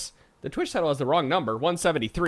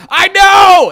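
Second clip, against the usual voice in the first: very high, very loud excited shout; overjoyed yell to a coworker; 18 dB louder than usual. Retold or imitated. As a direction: belt it out like you just found treasure. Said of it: "And I go".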